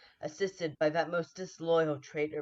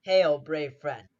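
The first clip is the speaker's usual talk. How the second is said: slow, loud call across the field; a slow ringing greeting; loud hail; 10 dB louder than usual. Acted. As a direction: hail him loudly, drawn out. Sergeant hails king on battlefield.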